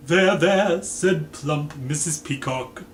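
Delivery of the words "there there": gentle comfort. Acted. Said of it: "gently patting her host".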